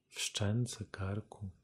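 ordinary talk, nothing marked

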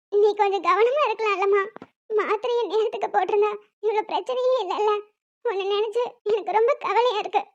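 weepy, worried reproach; tearful. Acted. Daughter worried about her sick mother, tearful. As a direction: plead gently through tears. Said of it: "சரி, சரி, அழாதம்மா".

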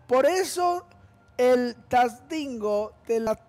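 mock troll boast. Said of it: "dice el Tatancio".

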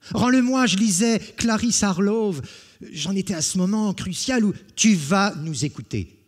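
high, loud indignant cry; outraged protest. Acted. Jean to Beau Loriot who snatched his book, high outraged cry. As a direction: yelp at the thief.

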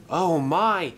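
high, rising astonishment; amazed gasp. Acted. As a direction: gasp it with mounting delight. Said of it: "gasped Ryan".

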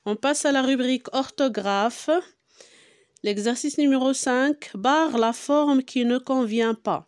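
measured French read-aloud, word by word; slow, deliberate classroom dictation pace; slow instructional reading. Real, not acted. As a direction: read the exercise out slowly for pupils. Reads exercise heading and instruction aloud.

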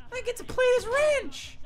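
high mock-cheerful voice; sarcastic cheer. Real, not acted. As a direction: fake excitement, dripping sarcasm.

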